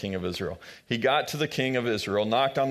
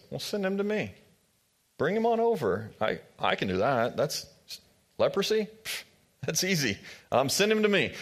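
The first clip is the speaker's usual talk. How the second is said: much higher, breezy brag; breezy prophet; 6 semitones higher than usual. Retold or imitated. Elijah to the worried king, breezy and much higher. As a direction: toss it off like it's nothing. Prophet brushes off leprosy boastfully.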